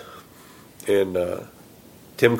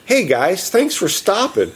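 deadpan; 8 semitones higher, slower than usual. Retold or imitated.

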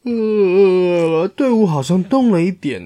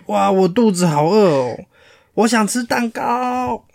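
higher, slowing whine of a hungry lion; 6 semitones higher than usual. Acted. Lion at the front, moaning to everyone that he wants cake. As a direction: moan about being starving. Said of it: "前面的狮子说".

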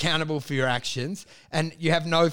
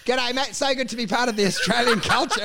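higher, hammed-up Aussie greeting; eager larrikin; 4 semitones higher than usual. Wacker joining in Australian culture, eager larrikin. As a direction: play the keen would-be larrikin. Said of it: "corrupted and thinking it's larrikin".

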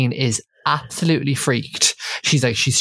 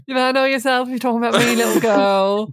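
higher mock roar at a housemate; imitating a roar; 7 semitones higher, faster than usual. Retelling Aisling roaring at Nikki, a mock roar. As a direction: roar it out, half-hearted. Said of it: "Aisling just roars at her".

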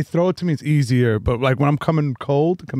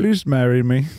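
put-on Indian accent; 2 semitones lower than usual. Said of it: "Indian gas station wedding proposals".

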